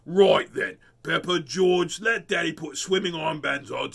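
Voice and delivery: loud, booming giant storyteller. Shown as a demonstration. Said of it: "Use my giant voice".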